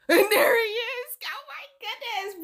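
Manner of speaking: high, drawn-out laughing squeal. Real, not acted. Reacting to a horror-like date story, laughing high. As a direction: laugh right through the words.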